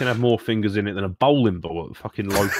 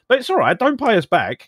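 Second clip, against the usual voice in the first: sarcastic; 12 semitones higher than usual. Acted. Sarcastic mockery of lenders.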